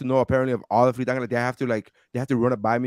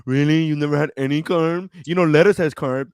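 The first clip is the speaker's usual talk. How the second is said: mock skeptical people; 6 dB louder than usual. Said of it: "people that go".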